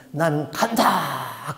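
slow, strange, subdued farewell; the demon conceding defeat. Retold or imitated. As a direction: give up and go.

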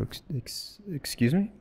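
breathless stammer rising high; choked, high incredulous question; stunned disbelief. Retold or imitated. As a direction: catch your breath, then squeak it out. Shocked at hearing tape unseen.

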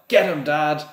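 high, loud cheering yell. A narrator's reading. The twins cheer their father into the fight, yelling. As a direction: egg Dad on at the top of your voice. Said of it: "there was a yell of".

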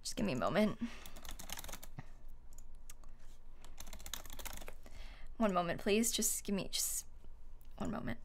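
whispering. Real, not acted. Asks chat to wait, whispering.

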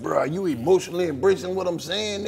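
playing earnestly in touch with feelings; carefully worded mock sensitivity; mock emotional. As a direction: pretend heartfelt check-in. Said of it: "What if we were really, like, in our feelings?".

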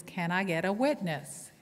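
slow, lightly preached call; preacher's call. Shown as a demonstration. Pastor calling for a response, lightly preached. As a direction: ask for a witness, understated. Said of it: "a response that sometimes pastors will say".

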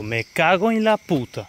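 slow, high-pitched frustrated curse; real exasperation at being robbed; exasperated cursing. Real, not acted. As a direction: drag out the curse in dismay. Discovers his scooter was stolen.

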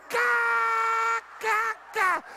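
high shouted cackle; mock the devil with a big fake laugh; demonstrated scornful guffaw. Shown as a demonstration. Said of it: "dê uma gargalhada".

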